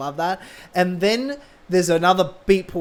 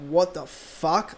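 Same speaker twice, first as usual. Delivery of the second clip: slow, softer disbelief; hushed acted fan shock; stunned processing; 5 dB quieter, much slower than usual. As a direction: drag it out as if it is sinking in.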